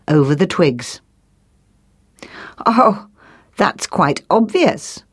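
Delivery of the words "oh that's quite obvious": slow, higher-pitched owl pronouncement; a lightly voiced know-all owl, drawn out; wise owl. Wise owl at the nest lesson, slowly pronouncing. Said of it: "said the wise owl".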